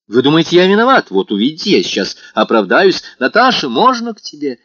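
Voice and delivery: feigned courage calling through the door; put-on boldness. A narrator's reading. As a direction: shout it to cover the nerves. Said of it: "с какой-то выделанной смелостью".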